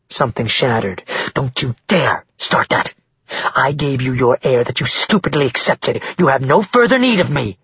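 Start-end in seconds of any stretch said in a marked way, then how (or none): 1.3-7.6 lightly voiced mother, scornful and cold; a hint of a contemptuous mother. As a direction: spit it at her husband, icy.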